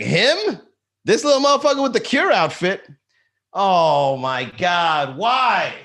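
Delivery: high, loud disbelief at his ex's new guy; shrieking who him, why; incredulous outrage. Retold or imitated. Comic telling ex's new goth boyfriend, high loud disbelief.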